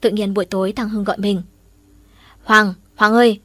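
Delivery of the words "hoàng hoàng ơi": calling out. Acted. Friend calls out on phone.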